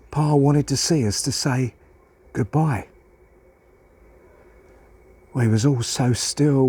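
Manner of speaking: measured, folksy poem reading with pauses; sombre child's recitation. Acted. Child telling of Pa's accident, measured and sombre. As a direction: tell it haltingly, as a child recalling bad news.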